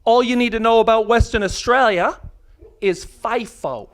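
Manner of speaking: imitated Aussie local; put-on Australian accent. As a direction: play a Western Australian bloke in Aussie accent. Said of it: "Here's my accent".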